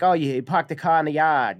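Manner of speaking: put-on light Boston accent, dropped R's. Quoting the line everybody always says, light Boston accent. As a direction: quote it in a mild Massachusetts accent. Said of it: "people with that Massachusetts accent".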